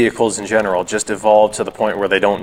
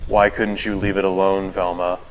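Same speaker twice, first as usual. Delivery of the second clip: flat, lifeless creepy cartoon voice; monotone voice. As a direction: drone it with no feeling. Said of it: "this monotone voice".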